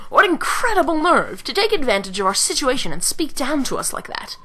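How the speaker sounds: acted indignation at being talked down to; a touch of theatrical outrage; indignant. Indignant character reacting to a noble.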